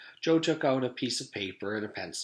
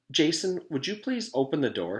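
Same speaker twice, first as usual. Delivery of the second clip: loud, high call to Jason; teacher calling a student by name; 7 semitones higher, 6 dB louder than usual. Acted. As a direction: call across the classroom.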